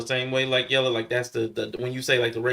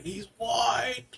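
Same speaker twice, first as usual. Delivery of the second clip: mock flat aside; 9 semitones higher, 6 dB quieter than usual.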